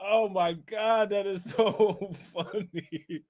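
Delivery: slow, squeezed out through laughter; laughing helplessly. Real, not acted. Streamer cracking up at a funny post, laughing helplessly. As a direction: barely get it out for laughing.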